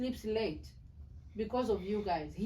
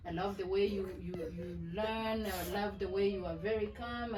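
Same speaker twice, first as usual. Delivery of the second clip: tender reassurance; 3 semitones lower than usual. Real, not acted. Mother reassures daughter after apologies.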